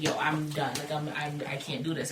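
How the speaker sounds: low, soft and faltering; quiet resignation. Retold or imitated. Storyteller re-enacting cutting them all off, quietly resigned. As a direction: back away quietly, giving up.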